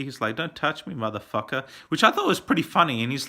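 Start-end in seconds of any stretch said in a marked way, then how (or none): 0.3-1.6 softer retold melodrama; understated imitation of a dramatic threat; mock dramatic. Reviewer repeats how Johnny says it, lightly mock dramatic. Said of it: "so dramatically".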